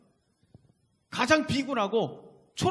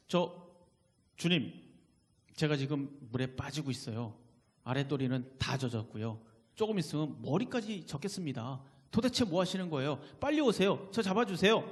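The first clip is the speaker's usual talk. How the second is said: understated, politely reporting while drowning; mock-calm plea, lower at first, livelier toward the end; 베드로; 4 semitones lower than usual. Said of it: "이렇게 얘기했을까요? 아니죠". (물에 빠진 사람답지 않게 차분히 보고하듯)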